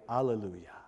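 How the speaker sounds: soft, low, prim alleluia; polite alleluia. Shown as a demonstration. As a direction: say it politely and hushed. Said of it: "Or more politely".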